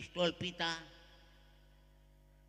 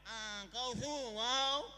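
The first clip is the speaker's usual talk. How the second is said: drawn-out call to the daughter-in-law; mother-in-law calling; slower than usual. Acted. Mother-in-law calls her son's wife from the other room.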